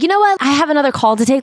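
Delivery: high, fast put-on mom voice; hammed-up mother cutting it short; mock busy mother. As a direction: rattle it off, already distracted. Mother brushes daughter off.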